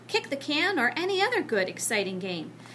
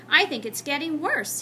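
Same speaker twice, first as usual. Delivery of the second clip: reproachfully; 4 semitones higher, 4 dB louder than usual. Acted. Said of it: "he added reproachfully".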